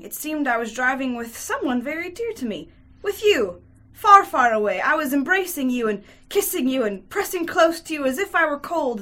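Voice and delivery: lightly voiced woman recounting a dream; slightly lifted, wondering character voice; dreamy Grushenka. Woman tells her lover her dream, lightly voiced wonder.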